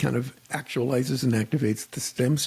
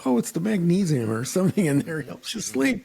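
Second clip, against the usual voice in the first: lightly voiced doctor; 5 semitones higher than usual. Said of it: "He goes".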